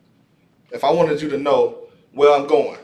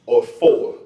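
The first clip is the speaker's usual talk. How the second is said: "to" lifted higher and drawn out slowly; slow teaching say; 10 semitones higher, 4 dB louder, much slower than usual. Shown as a demonstration. Teacher drawing out "to" for the class. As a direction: stretch out "to" for the class. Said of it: "So that's to".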